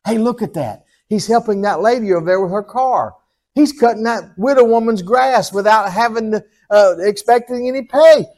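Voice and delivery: a beaming father calling the angels to look; God rejoicing over his child; God the proud Father. Acted. Voices God watching his child.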